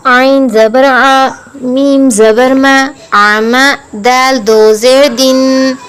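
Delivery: slow, measured syllable-by-syllable recitation; Qaida spelling recitation. Shown as a demonstration. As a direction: chant each letter and vowel evenly, holding the endings. Spells out Arabic syllables for learners.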